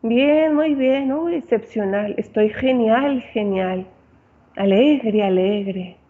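a hint of overdone cheer; mock upbeat person. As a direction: gush about feeling great, lightly acted. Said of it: "la persona te va a decir".

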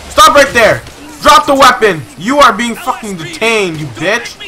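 high, forceful role-played cop orders; shouted police command. Role-playing officer to armed suspect, shouted commands.

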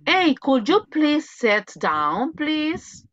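slow, polite "could you please sit down"; teacher demonstrating an English request; polite request demo. Shown as a demonstration. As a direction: model a courteous request. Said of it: "¿qué es lo que a veces los maestros dicen?".

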